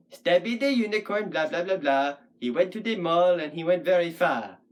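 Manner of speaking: Stabby the unicorn and each blah in a steady verse beat; sing-song rhythm. Shown as a demonstration. Puppet poet demonstrating rhythm, Stabby the unicorn in sing-song beat. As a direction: chant it evenly from Stabby down to far. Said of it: "that'll be our rhythm".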